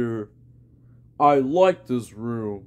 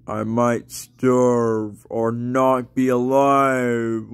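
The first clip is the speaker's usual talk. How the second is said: toothless voice. Pretend. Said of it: "J K, I got my teeth".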